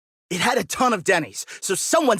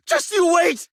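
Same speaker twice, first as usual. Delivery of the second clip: high, furious parting threat; 10 semitones higher than usual. Acted. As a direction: hurl a threat as you storm off. Defeated man storms off threatening.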